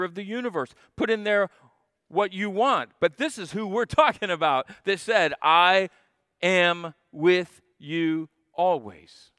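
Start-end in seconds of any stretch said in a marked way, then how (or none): 5.4-9.3 slow emphatic quote. Acted. Pastor quoting Jesus' promise slowly.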